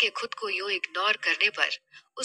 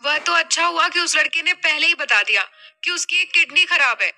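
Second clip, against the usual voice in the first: put-on higher, louder young-daughter role, animated complaint; शिकायत करती बेटी; 5 semitones higher, 4 dB louder than usual. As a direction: play the daughter spilling the whole story. (बेटी की ऊँची, शिकायती आवाज़)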